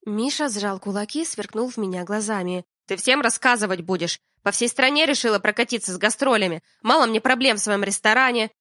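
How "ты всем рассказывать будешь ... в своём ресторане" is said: louder, heated reproach; angry outburst. Acted. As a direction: snap back at your wife in anger. Миша ссорится с Алиной.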